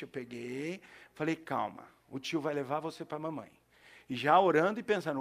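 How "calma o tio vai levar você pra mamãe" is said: put-on much softer and lower, calming a lost little boy; soft reassurance to a scared kid; gentle soothing. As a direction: hush the child, tell him it's all right. Soothing a lost crying child.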